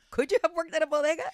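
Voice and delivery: high, loud incredulous question; amused disbelief. Real, not acted. Host teases guest about working at eight, amused disbelief. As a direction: tease her with mock disbelief.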